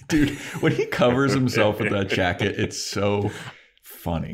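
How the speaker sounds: laughing through the words; amused, laughing as she speaks; giggling out the description; laughing while talking. Real, not acted.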